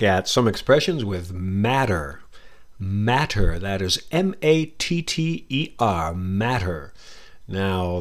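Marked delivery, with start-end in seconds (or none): 2.8-3.6 matter said the American way, mat-er with a tapped t and an r ending; American pronunciation. Shown as a demonstration. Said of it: "that's my American accent". 6.1-6.9 matter said low and falling, the American way, with a tapped t; American pronunciation. Shown as a demonstration. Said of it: "that's my American accent".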